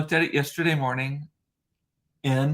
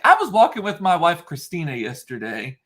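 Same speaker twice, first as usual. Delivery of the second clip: lightly voiced excited restaurant owner; a hint of an animated owner retelling his walk; Daniele; 4 semitones higher, 3 dB louder than usual. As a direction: imitate the owner, pitched up at the start. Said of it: "and he's like".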